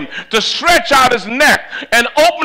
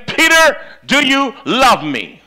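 Jesus pressing Peter, raised and pleading; 5 semitones higher than usual. Acted. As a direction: ask it like a yearning teacher. Jesus asks Peter repeatedly.

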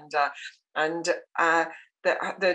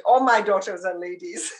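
mother's retort; 4 dB louder than usual. Retold or imitated. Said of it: "And she said".

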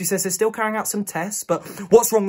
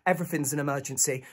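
softer, unimpressed put-down; dismissive receptionist; 2 semitones lower, 6 dB quieter than usual. Acted. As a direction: brush off the panicking visitor. Receptionist brushes the plea off.

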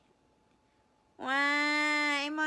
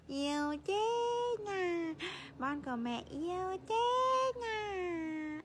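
doting mother's sing-song coo; 3 semitones higher than usual. Real, not acted. Mother cooing over baby.

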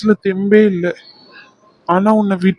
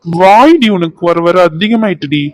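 fiancé playfully scolding his cheeky bride-to-be; 4 dB louder than usual. Acted. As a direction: pretend to tell her off for her cheek.

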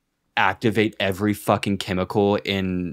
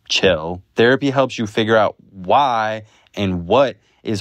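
louder, upbeat sponsor read; 4 dB louder than usual. Acted. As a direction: read it like a podcast ad. Reads a sponsor ad.

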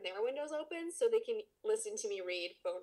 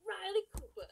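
mock proclamation; 10 semitones higher than usual.

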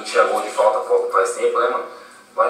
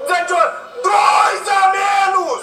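laughing celebration. Real, not acted.

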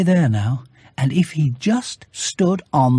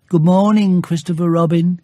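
higher cheerful bear voice; Pooh's greeting; 4 semitones higher, 3 dB louder than usual. Acted. Bear greets Christopher Robin at his door, higher and cheerful. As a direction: greet your friend brightly.

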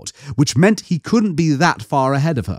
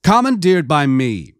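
a woman calls down, pitched higher; called out from above; 4 semitones higher than usual. Acted. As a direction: call down to them from above. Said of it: "a voice called from above them".

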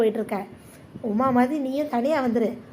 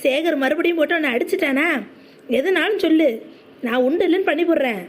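indignant; 3 dB louder than usual. Acted. Friend suspects beating, threatens the husband.

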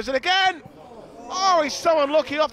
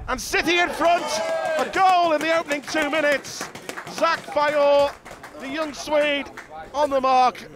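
excited goal call; 4 semitones higher than usual. Real, not acted. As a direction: call the early goal with a rush. Early goal called live.

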